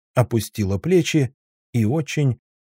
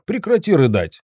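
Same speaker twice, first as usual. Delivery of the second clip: sharp raised outburst; exploding; 7 semitones higher, 3 dB louder than usual. A narrator's reading. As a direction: Zhora snapping at crying Sveta, raised and sharp. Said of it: "взорвался я".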